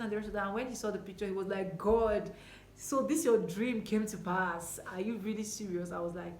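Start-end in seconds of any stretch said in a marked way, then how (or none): 1.8-5.9 amazed. Retold or imitated. Ex reacting to wedding picture.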